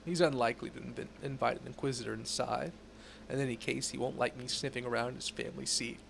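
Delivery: measured, serious investigator tone; stern Inquisitor voice. Acted. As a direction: read it like a grave inquisitor. Reads Inquisitor NPC dialogue.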